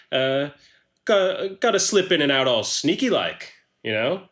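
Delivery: lightly voiced casual sneak with an accent; chatty, accented character, a little evasive; roguish Hein Hookman. Hookman explains sneaking in and out, roguishly casual.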